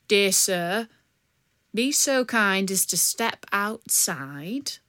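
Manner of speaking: slow, courtly outlaw voice; a gallant highwayman bowing with words; slow, mock-polite bandit. Polite bandit at carriage door.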